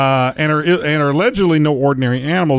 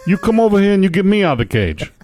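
higher, pushy pet rat voice; talking rat; 7 semitones higher than usual. Pretend. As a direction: demand attention like a caged rat. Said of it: "Do they have that accent?".

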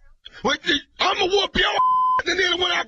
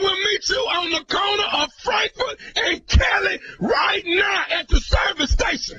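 angry shout. Acted. Prank caller picking a fight.

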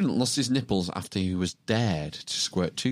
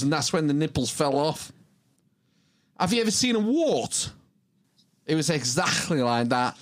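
higher-pitched, animated quote voice; storytelling student; 6 semitones higher than usual. Acted. Reading out the student's nipple story, animated student voice. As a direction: act out the student's account.

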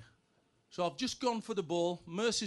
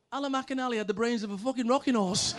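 laughing punchline; 3 semitones higher than usual. Retold or imitated. Punchline delivered with laugh shout.

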